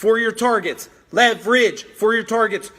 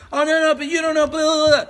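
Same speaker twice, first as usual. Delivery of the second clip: mocking whine; 5 semitones higher, faster than usual. Mocking people's excuses.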